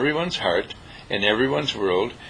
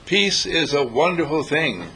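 mock cheer; 3 semitones higher, slower than usual. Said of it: "they shout".

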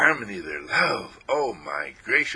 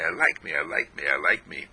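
low soft affirmation; 6 semitones lower than usual. Shown as a demonstration. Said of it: "and I say".

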